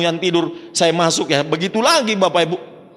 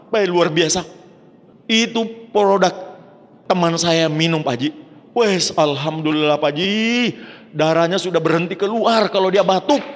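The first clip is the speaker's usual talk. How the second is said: much higher, bursting with relief; excited good news; 5 semitones higher than usual. Retold or imitated. Caller telling Pak Haji the coughing blood stopped, excited. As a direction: gush out that it worked. Caller reports friend's recovery.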